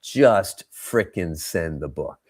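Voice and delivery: slow, word-by-word urging; insistent inner voice. Retold or imitated. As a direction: spell it out slowly, like an order to yourself. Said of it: "the louder voice in my set, head said".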